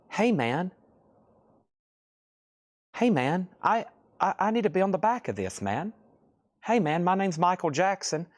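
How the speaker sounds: high, airy pop-star voice; a singer impression. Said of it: "I'm gonna give you my best pop-star voice".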